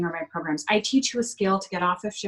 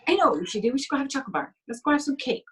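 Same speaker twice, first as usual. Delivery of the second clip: higher, quicker voice of the craving body, keen on a treat; the body's addicted voice pitching chocolate, eager and higher; 5 semitones higher, faster than usual. Retold or imitated. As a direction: play the sugar craving jumping at an idea. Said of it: "'cause it just thinks".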